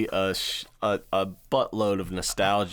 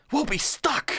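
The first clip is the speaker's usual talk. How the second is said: much higher, laughing mock panic; higher panicked repeat. Retelling the cigarette guy's panic to a friend, high and laughing. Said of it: "runs back and like".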